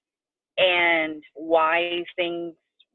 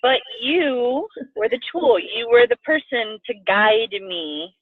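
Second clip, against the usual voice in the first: tearful; 3 semitones higher, slower than usual. Real, not acted. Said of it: "I get very emotional".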